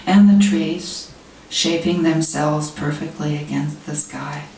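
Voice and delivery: measured poetry recital, pausing between lines; poem reading. Real, not acted. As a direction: read it as verse, phrases falling at the ends. Reads own poem to audience.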